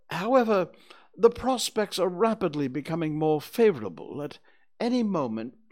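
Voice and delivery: high, loud owl character voice; pompous Owl. Acted. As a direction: pronounce it like a self-important owl. Owl figure continuing grand pronouncement.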